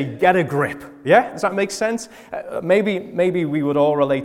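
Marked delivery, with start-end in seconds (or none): 0.0-0.8 punchy, louder Scouse; Scouse accent. Retold or imitated. Preacher giving the Scouse version of dad's saying, Scouse accent. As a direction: say it as a blunt Scouse telling-off. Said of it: "In Scouse".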